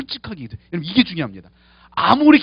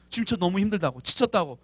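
weary; 6 dB quieter than usual. Retold or imitated. Moses' prayer turns weary.

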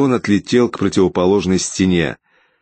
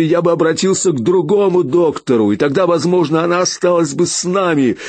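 higher, raw grief turning to rage; grief-stricken fury; anguished outburst; 9 semitones higher than usual. A narrator's reading. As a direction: pour out the loss, voice straining. Grieving father rages at inspector.

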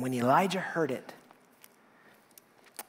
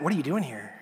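regretful; faster than usual. Shown as a demonstration. Asking someone who should not be here, regretful. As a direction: let the question sag with regret. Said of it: "Or with regret".

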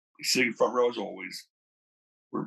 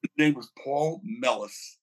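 slowed down so the name is caught; repeating the name slowly and clearly for the host; slower than usual. Shown as a demonstration. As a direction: spell out the name Mellis slowly. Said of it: "I'm sorry, say it again".

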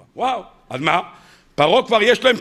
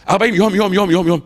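words fade into a distant echo; fading far-off echo; 3 semitones lower, faster than usual. Retold or imitated. Rabbi imitating the prophet's cry echoing far away, fading. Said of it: "שמעו, מרחוק".

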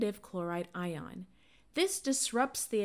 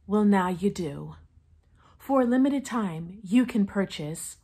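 ad read; 4 dB louder than usual. Acted. Fake sponsor ad read.

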